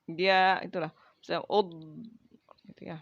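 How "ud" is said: ud with the d held; stretched dhad. Shown as a demonstration. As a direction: hold the final sound. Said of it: "agak panjang gitu untuk ditahannya".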